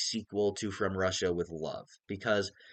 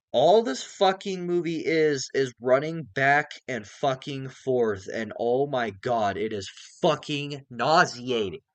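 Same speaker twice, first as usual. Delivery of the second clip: exasperated rant; 3 semitones higher, 3 dB louder, slower than usual. Real, not acted. Vlogger venting to viewers about the film, slow exasperated rant. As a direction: drag out the disgust.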